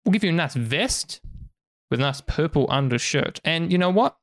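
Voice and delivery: lightly voiced merchant, coaxing sales pitch. Merchant offering a human fine clothes, lightly voiced pitch. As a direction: coax them like a market trader.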